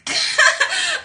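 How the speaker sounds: loud high burst of laughter. Real, not acted. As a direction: crack up loudly. Laughs at own quote.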